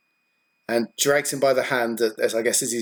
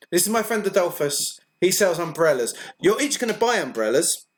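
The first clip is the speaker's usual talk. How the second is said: in-character introduction; 4 semitones higher than usual. Acted. Game master voices woman introducing salesman.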